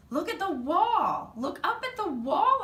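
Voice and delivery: very high, loud squeaks; a hamster squeaking loudly, very high; squeaky hamster. A narrator's reading. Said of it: "I squeaked".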